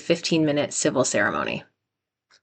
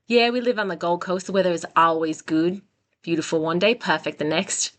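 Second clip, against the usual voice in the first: tentative Australian accent. Shown as a demonstration. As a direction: attempt an Australian lilt. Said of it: "try to read this with an Australian accent".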